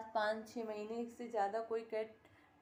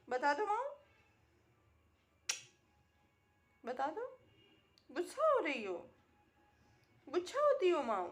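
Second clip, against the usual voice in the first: high, louder sing-song coaxing; 4 semitones higher, 7 dB louder than usual. Real, not acted. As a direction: coax the pet to say hello. Baby talk urging pet.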